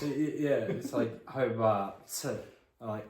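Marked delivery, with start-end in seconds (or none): 1.3-2.0 Hobart with the final T left off; dropped T. Retold or imitated. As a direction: swallow the T ending Hobart. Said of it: "you're not saying it with the T".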